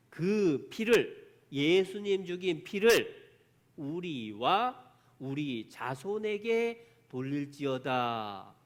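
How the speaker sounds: loud, drawn-out proclamation of an ancient verse; crowd's cry. Retold or imitated. People of Israel answering the judge, slow solemn cry. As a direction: intone the crowd's answer slowly, stretching the words. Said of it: "뭐라고 외치느냐".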